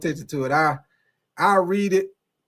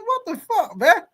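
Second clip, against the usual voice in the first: high, squeaky voice breaking into laughter; comic rising question, helpless with laughter; laughing disbelief; 11 semitones higher than usual. Retold or imitated. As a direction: replay your shock while cracking up. Retelling his shock while cracking up.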